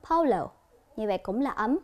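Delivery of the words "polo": "Polo" with O as in go; higher, careful "Polo" with long O; long O sound. Shown as a demonstration. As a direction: say "Polo" high then falling, rounded O. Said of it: "âm O".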